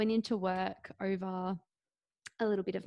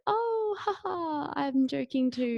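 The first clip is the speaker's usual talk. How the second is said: fake laugh; 6 semitones higher, slower than usual. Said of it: "So I was like".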